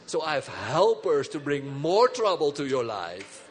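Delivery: slow, heavy bragging giant; lightly voiced boasting Goliath; boastful problem voice. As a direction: swagger as the looming problem.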